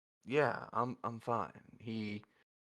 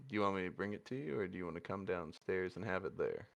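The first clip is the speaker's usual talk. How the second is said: gentle offer; 4 semitones lower, 7 dB quieter, faster than usual. Acted. Tender morning breakfast offer.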